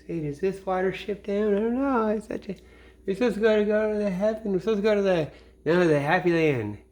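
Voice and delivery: high-pitched, lightly voiced rabbit; excited rabbit voice. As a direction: chirp it like an eager little cartoon rabbit. Rabbits voiced in retold cartoon.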